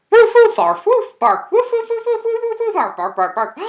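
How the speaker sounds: high, loud yappy barks; excited dog barking. Acted. The dog answers with happy high barks. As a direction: bark like an eager puppy.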